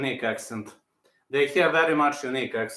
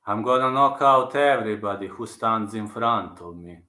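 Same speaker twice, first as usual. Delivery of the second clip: lower-pitched fighter's vow; lightly voiced impression, pitched down; Prohaska impression; 4 semitones lower than usual. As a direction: deliver the boast low and in character. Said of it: "Does it look like Prohaska?".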